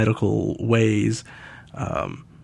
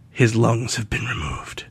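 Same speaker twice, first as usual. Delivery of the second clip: deadpan; 4 dB quieter, slower than usual. Retold or imitated. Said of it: "he says it in a very deadpan voice".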